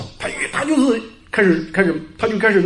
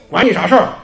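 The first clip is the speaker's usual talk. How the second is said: imitating a son's louder snapped retort; mock angry comeback, a bit louder; 2 semitones higher, 5 dB louder than usual. Son rebuffing a well-meaning adult, imitated angry retort. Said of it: "就那个眼睛一瞪".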